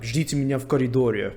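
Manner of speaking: said quickly, in passing; quick retold Russian. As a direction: rattle it off fast. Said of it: "she said it really quickly".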